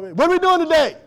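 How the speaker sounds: put-on high, eager kid voice; pestering kid. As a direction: imitate a child nagging dad for plans. Voices kids pestering dad.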